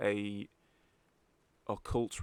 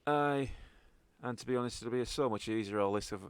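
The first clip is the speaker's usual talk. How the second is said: lightly voiced Scottish contact; Scottish accent. Contact talking to party about the job, Scottish accent. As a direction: confide it as a Scottish local. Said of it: "properly in a Scottish accent".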